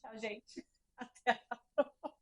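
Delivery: hiccuping, laughing sign-off; suppressing hiccups. Real, not acted. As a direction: hold back hiccups while saying goodbye. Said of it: "tô com soluço".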